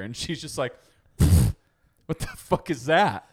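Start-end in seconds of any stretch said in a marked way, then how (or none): 2.0-3.3 mocking mom.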